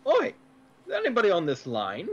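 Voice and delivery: fast, clumsy Cockney attempt; a rough London accent, badly done; bad British accent. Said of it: "the worst accent I've ever heard".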